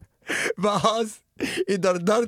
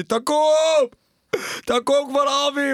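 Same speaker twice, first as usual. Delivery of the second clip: father yelling; 4 semitones higher, slower than usual. Retold or imitated.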